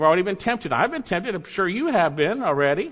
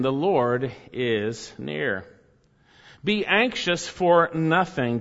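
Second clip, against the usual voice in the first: solemn read of Scripture, slowing at the close; measured scripture reading, slowing and fading at the end; 3 semitones lower than usual. Acted. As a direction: read the verse with reverence. Scripture reading within sermon.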